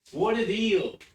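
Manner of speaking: loud, high infomercial pitch; mock salesman. Streamer hamming up a sub deal, infomercial voice. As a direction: hype it like a TV ad.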